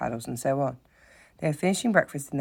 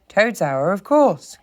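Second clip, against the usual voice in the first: louder, higher, eager realisation; eager cry; 6 semitones higher, 8 dB louder, much slower than usual. A narrator's reading. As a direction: call it out as it dawns on him. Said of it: "cried the mole".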